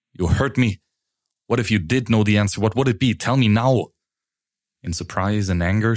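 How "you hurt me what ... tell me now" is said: demanding. Acted. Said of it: "Now his eyes were very demanding, as well as his voice".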